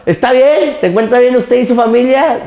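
mock customer-service questioning; insurance agent. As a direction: ask like a claims-line agent. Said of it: "es como te contesta el seguro".

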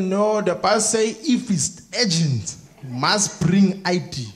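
put-on very slow, heavy-accented doorman; ponderous put-on official; exactly who she expects. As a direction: lay down the rule word by word. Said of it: "be exactly who she thinks I am".

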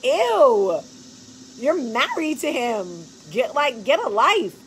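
a hint of an eye-rolling daughter; mock teen daughter. Daughter mocking her mom, a lightly voiced disgusted teen. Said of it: "She was like".

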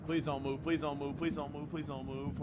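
scared whisper-pleading. Real, not acted. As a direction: plead quietly, afraid to be heard. Creeping past scary enemy.

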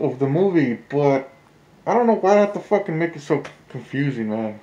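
muffled through a mask; talking behind a mask; through a face mask. Real, not acted. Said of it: "I don't know if you guys can hear me through the mask".

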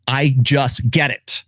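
slow, drawn-out I just get it; slow, knowing. Shown as a demonstration. A man stating how the game works, slowly. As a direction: let each word land slowly. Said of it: "if I just do that as who I am".

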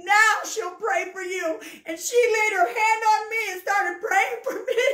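swelling, heartfelt testimony; building fervor. Real, not acted.

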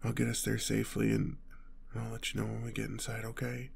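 soft, soothing wind-down; calm reassurance. Acted. Telling honey to relax on the drive, calm reassurance. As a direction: gently settle them down.

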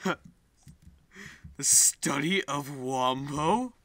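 very slow, stretched wombo; slow drawn-out question. Shown as a demonstration. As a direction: draw every word out slowly. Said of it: "repeated drawn out".

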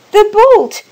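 high, strained shout; loud cry. A narrator's reading. Old woman calling to husband from the door, loud cry. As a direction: shout it out in urgent need. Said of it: "she cried loudly".

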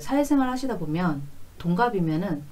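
usual speaking voice

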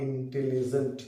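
ইন্টেলিজেন্ট slowly split into its syllables; ইন্টেলিজেন্ট in slow, separate beats to show its many syllables. Shown as a demonstration. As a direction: sound out ইন্টেলিজেন্ট one syllable at a time. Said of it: "এখানে polysyllable রয়েছে".

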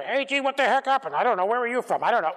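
lightly voiced bewildered bystanders, pitch jumping up; mock chattering crowd. Preacher imitating a confused crowd for the congregation, mock bewildered chatter. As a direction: mimic confused strangers babbling together.

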